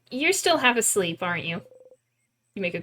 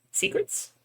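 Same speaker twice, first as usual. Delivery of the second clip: hushed question; 11 semitones higher, 7 dB quieter than usual. Pretend. Repeated secret search.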